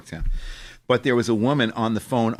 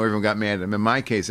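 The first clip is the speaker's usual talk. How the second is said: ordinary delivery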